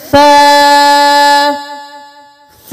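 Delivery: سا said softly with the tongue between the teeth, a lisped th and no s; soft tha sound. Shown as a demonstration. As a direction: stretch سا out with a soft th. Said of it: "زبان کو اوپر والے اور نیچے والے دانتوں کے درمیان". (سا نرمی سے، زبان دانتوں کے درمیان)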